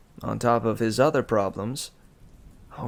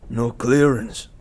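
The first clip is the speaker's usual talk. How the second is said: slow, loud grunted line; grunting ox guy; 8 dB louder than usual. A narrator's reading. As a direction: grunt it like a dim brute.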